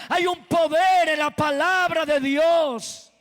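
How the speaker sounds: forceful, driving sermon delivery; impassioned preaching. Real, not acted. Preacher teaching the congregation that only God creates, impassioned preaching. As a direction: preach it hard, leaning on key words.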